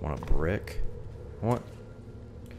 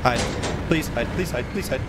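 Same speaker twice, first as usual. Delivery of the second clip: louder, higher anxious begging; nervous pleading; 4 semitones higher, 3 dB louder, faster than usual. Real, not acted. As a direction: beg the game to let you hide. Pleading as monster nears.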